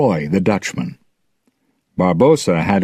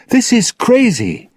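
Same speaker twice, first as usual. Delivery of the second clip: high-pitched, raised-voice outcry; shouted protest; 4 dB louder than usual. A narrator's reading. Elizabeth to the fighting pirates, shouting in protest. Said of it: "Elizabeth shouted".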